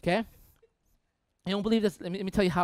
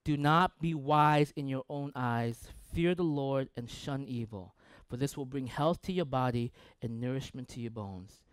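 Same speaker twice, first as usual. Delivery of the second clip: scripture reading; 2 semitones lower than usual. Shown as a demonstration. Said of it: "It says this".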